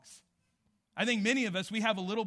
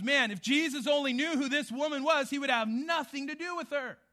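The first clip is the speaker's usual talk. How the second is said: scornful Pharisee; 7 semitones higher, 6 dB louder than usual. Retold or imitated. Preacher voices scornful Pharisee Simon.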